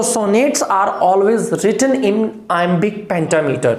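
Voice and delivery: slowed right down, word by word, for notes; slow dictation. Shown as a demonstration. Teacher dictating to the class, slow and deliberate. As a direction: dictate it slowly so students can write. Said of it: "teacher dictating key definition".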